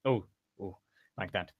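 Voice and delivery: short soft "oh" sounds; demo of the sound. Shown as a demonstration. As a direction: demonstrate a little "oh". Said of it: "it kinda sounds like this".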